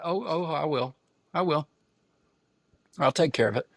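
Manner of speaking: hammed-up villain promise; mock sinister insistence. Dad assures his wife he will handle it, mock sinister.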